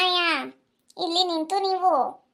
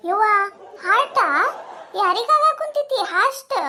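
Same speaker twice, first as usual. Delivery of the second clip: much higher startled neighbour voice; surprised neighbour; 3 semitones higher than usual. Acted. Neighbour shocked to hear of a heart attack, asking high. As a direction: gasp out the question, shocked.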